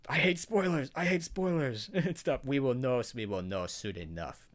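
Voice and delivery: mock Russian accent, lightly done; a hint of a hammed-up Russian accent; playful put-on Russian accent. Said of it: "I do that in a Russian accent".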